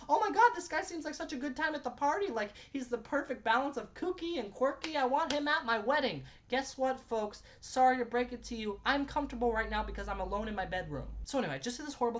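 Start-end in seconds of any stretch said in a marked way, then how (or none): 0.1-6.2 mock fan gush, slightly raised pitch; imagined gushing fan. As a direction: lightly imitate an admiring viewer. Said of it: "You guys are like".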